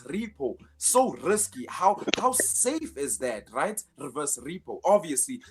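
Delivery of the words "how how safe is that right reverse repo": dry sarcasm, dropping off at the end; sarcastic. Real, not acted. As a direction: feign approval with real sarcasm. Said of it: "I'm being sarcastic".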